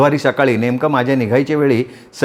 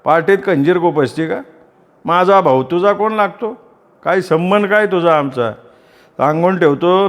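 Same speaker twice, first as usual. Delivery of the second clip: angry threat; 4 semitones higher than usual. Acted. Sanjay threatens narrator's mother.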